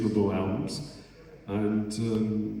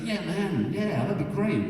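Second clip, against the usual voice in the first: casual American friend; 9 semitones higher than usual. Retold or imitated. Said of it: "And he's like".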